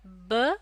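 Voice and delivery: ब alone as the first beat of बनाना; isolated syllable. Shown as a demonstration. Teacher answering what the first syllable is, isolated syllable. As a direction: sound out ब by itself. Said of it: "पहला syllable क्या है".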